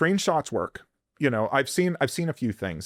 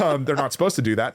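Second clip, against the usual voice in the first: laughing; faster than usual. Real, not acted. Laughing after joke.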